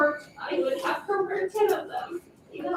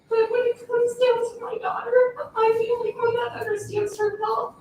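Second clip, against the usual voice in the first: tearful; 4 semitones higher, 4 dB louder than usual. Real, not acted. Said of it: "it gets tearful".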